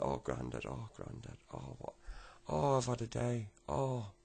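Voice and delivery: acted upset moaning.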